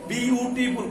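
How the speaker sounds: বিউটিফুল split into its separate syllables. Shown as a demonstration. Teacher simplifying syllable counting for students, বিউটিফুল syllable by syllable. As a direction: sound out each syllable of বিউটিফুল. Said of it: "কয়েকবার যদি বিভিন্ন ধরনের".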